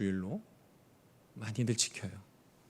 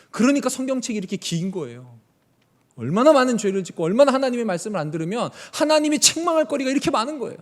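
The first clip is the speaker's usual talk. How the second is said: ordinary delivery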